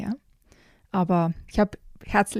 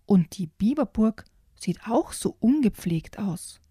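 put-on lively read-aloud of a children's book; picture-book storytime voice with character voices; story reading. A narrator's reading.

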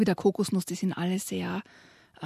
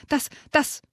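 higher, spluttering with indignation; indignant splutter; 8 semitones higher than usual. Acted. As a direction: choke on your outrage. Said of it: "schnappte empört nach Luft".

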